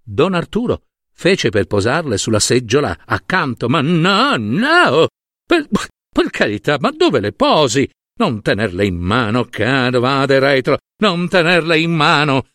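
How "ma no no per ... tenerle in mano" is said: flustered alarm. Acted. Monsignor begging him not to put bills there, flustered alarm. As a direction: recoil in fussy panic, pitch jumping up.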